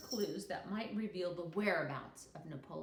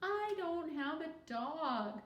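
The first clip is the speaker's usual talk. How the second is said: high, slow little sad voice; girl sadly admitting to the class; 8 semitones higher, 4 dB louder, slower than usual. A narrator's reading. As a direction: sound forlorn. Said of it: "Tricia said sadly".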